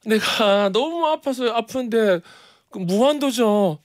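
high, slow imitation of an old lady; elderly deaconess voice. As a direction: lightly voice a frail elder lady. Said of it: "이러시는데". (교회 권사님 흉내)

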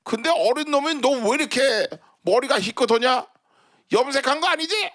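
put-on high, scolding old lady with laughs; foul mouthed granny. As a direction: bark at him like a cranky granny. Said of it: "욕쟁이 할머니".

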